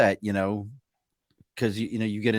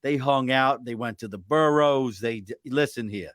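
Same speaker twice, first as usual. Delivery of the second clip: mock audiobook read; 5 dB louder than usual. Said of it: "I need you to read it, Bob".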